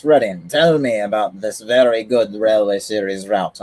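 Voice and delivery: put-on a light, offhand Russian accent. Reading a chat message aloud, faint Russian accent. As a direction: slip into a hint of a Russian accent. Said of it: "I don't know why I said that with a Russian accent".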